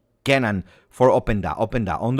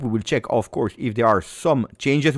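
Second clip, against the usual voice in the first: ordinary delivery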